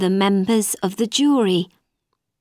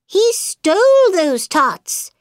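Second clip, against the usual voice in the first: White Rabbit reciting; 10 semitones higher, 4 dB louder than usual. A narrator's reading. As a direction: proclaim it like a herald.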